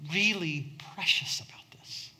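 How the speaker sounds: sudden unvoiced whisper. Real, not acted. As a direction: drop to a hushed whisper for emphasis. Sermon stressing precious goodbyes.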